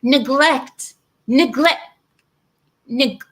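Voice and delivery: incredulous mocking repeat. Real, not acted. Mocking her word in disbelief.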